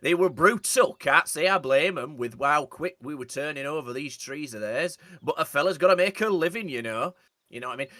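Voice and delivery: northern English accent impression; northern English accent, game character. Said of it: "I do that voice a lot".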